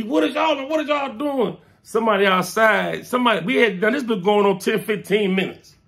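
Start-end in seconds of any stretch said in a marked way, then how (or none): 0.0-1.6 voicing cousin. Cousin breaks up argument.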